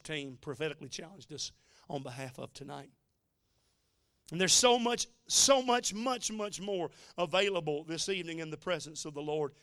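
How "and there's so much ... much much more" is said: rising preaching. Real, not acted. Preacher builds toward climax.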